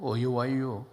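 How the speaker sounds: brief Chungcheong punchline; Chungcheong dialect. Shown as a demonstration. Preacher turning a welcome into Chungcheong dialect. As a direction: welcome someone like a Chungcheong local. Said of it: "충청도 말로".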